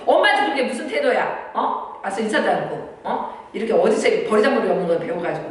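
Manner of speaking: hammed-up angry mom telling her daughter off; scolding mother. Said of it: "막 이러면서 막 이러면 안 된다". (버릇없는 딸을 꾸짖는 엄마)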